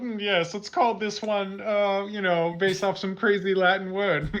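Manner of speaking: lightly mocked posh British scientist; musing British snob naming things over wine; upper-class British. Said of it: "giving an upper class person a British accent".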